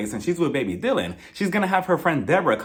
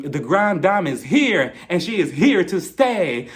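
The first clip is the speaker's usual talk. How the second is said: villain proclamation; slower than usual. Retold or imitated. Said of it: "She sounded like a villain".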